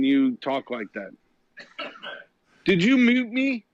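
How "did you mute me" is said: louder and higher, demanding; indignant loud protest; mock outraged shout. Real, not acted. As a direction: yell in mock outrage not to be muted. Guest demanding loudly.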